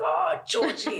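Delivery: imitating a mortified boy, drawn out; mock embarrassed groan. Pupil cringing at the teacher's accents, mock embarrassed groan. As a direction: groan the name slowly, hardly voiced. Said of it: "he gets so embarrassed".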